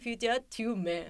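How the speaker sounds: slow, jaw-forward Japanese-accented English; drawn-out katakana English; jutting-jaw broken English. Shown as a demonstration. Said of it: "英語喋ってる時、顎出てますわ".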